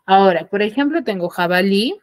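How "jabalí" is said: jabalí with the final LÍ stressed; teacher's demo of jabalí, weight on LÍ; stress on last syllable. Shown as a demonstration. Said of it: "tiene la mayor fuerza de voz en la última sílaba".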